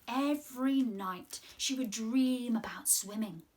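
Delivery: gentle storybook reading voice; reading to children. Acted. Presenter reading a story aloud to the children. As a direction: read it like a storyteller to little ones.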